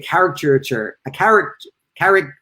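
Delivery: tripping over "caricature", breaking it off; stumbling pronunciation. Real, not acted. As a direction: stumble on "caricature" and restart the first syllables. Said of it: "I can't say caricature".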